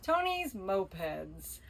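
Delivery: whispered fake sponsor plug; whispered spoof sponsor line; mock ad whisper. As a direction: slip in a secret ad in a whisper.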